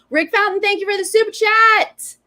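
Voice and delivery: high, loud thank-you call; excited shout-out. Real, not acted. Host thanking a viewer for a super chat, excited shout-out. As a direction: belt out the thanks like a hype host.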